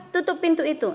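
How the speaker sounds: "Tutup pintu itu" pitched high, falling at the end; command intonation. Shown as a demonstration. Teacher demonstrates an imperative sentence, "Tutup pintu itu" in command intonation. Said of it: "dilakukan dengan intonasi perintah".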